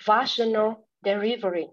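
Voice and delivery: "Vaginal" as VASH-uh-nul; learner's repeat of "Vaginal" with front stress; stress on first syllable. Shown as a demonstration. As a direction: lean on VA in "Vaginal delivery". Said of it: "the stress is on the first syllable".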